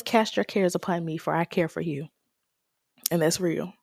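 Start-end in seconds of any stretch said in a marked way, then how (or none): 0.0-2.1 reassuring. Retold or imitated. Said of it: "He says".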